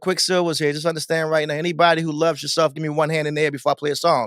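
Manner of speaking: easy, unforced MC talk on the mic; just talking. Acted. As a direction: address the party crowd without screaming. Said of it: "I'm talking like this".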